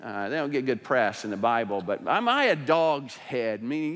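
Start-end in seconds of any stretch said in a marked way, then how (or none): 2.0-3.6 slow, stretched-out mock affront; righteously indignant. Abner throwing the accusation back, mock indignant. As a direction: act insulted, drawing the question out. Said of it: "the card of being righteously indignant".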